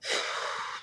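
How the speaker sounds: long, soft breathy exhale; quiet venting sigh; heavy sigh. Real, not acted. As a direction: let the anger out on a breath. Trying to contain her rage.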